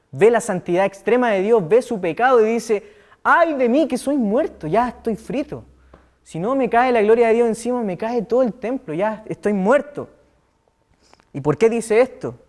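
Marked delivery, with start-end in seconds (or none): 3.2-10.1 anguished lament. Retold or imitated. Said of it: "Lo dice en tono de exclamación o de juicio o de pesar".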